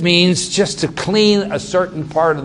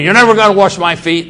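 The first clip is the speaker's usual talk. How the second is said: quick, firm refusal, a little louder; harsh refusal; 4 semitones higher, 4 dB louder, faster than usual. Retold or imitated. Peter refusing his master's washing, harsh and fast. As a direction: snap it shut fast. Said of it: "he's the harsh thing".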